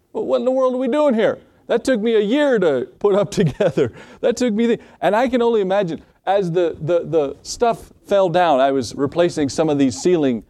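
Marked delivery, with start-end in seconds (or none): 0.1-4.8 high-pitched indignant complaining; mock ticked homeowner. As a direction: play the homeowner fuming at his roof. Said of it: "must have been ticked".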